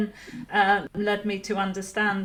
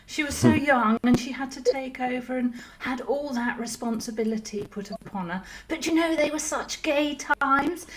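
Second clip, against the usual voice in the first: posh Laura; 3 semitones higher than usual. Acted. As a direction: swoon like an old English society lady reminiscing. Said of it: "you have to talk to her, her answer back".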